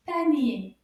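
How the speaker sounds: panier punched out loud by syllable; loud, clear beats on panier; counted syllables. Shown as a demonstration. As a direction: beat out panier loudly for counting. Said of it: "count how many syllables".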